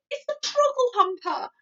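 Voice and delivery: high loud angry anguished shout; furious shout. A narrator's reading. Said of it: "he shouted".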